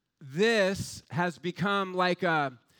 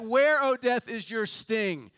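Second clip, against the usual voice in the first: quoted challenge, punched at the start; taunting; 2 semitones higher than usual. Retold or imitated. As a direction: taunt a beaten enemy. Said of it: "Just taunting this thing".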